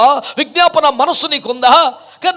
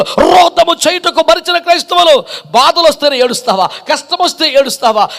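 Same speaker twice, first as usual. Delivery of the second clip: raised, ringing sermon delivery; impassioned preaching. Real, not acted. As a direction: preach it with mounting urgency. Preaches a rebuking list.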